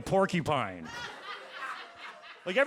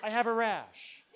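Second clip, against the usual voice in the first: drawn-out slow yell of I have a rash; hammed-up rash cry; mock pained yell; 6 semitones higher, slower than usual. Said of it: "I say something subtle like".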